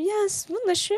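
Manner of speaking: squeaky high voice near tears; strained high reply. Retold or imitated. Answering the kind man while fighting tears, squeaky and high. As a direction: force the words out, choking back tears.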